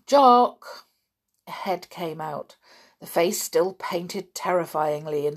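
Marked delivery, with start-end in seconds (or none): 0.1-0.9 loud, higher one-word call. A narrator's reading. Julian calls up to Jock's window, calling out. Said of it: "Julian called up to the window above".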